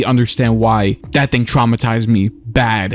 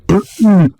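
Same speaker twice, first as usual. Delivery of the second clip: sharp reenacted gasp; 8 semitones higher, 5 dB louder than usual. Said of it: "I physically gasped".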